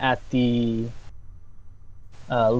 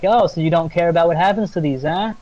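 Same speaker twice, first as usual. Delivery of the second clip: quick, higher mild taunt; taunting nymph; 4 semitones higher, 4 dB louder, faster than usual. Acted. Nymph challenges lumberjacks over their men, mild taunt. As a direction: challenge them in a hurried, raised pitch. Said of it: "the nymph's like".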